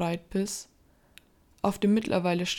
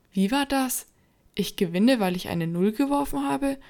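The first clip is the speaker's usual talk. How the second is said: surprised; 5 semitones higher than usual. Acted. Markus indignant at the card.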